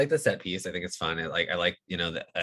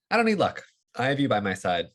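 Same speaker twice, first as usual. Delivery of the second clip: quoting Chirrut; 4 semitones higher, 4 dB louder than usual. Retold or imitated. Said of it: "and it's like".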